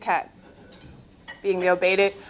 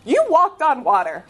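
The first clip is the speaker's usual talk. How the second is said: high, exasperated, half-laughing complaint; arguing with God, incredulous and a bit amused; exasperated plea to God; 9 semitones higher than usual. Retold or imitated. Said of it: "I was honest, and I said".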